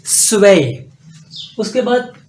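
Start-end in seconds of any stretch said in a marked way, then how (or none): 0.1-0.9 स्वे said with an s start, long e; German zwei. Shown as a demonstration. Teacher repeats German two for students to copy. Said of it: "इसको पढ़ेंगे स्वे".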